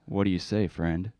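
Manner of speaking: put-on a lightly accented scam pitchman; spam caller. Prank caller pitches a dating service to the host, lightly accented.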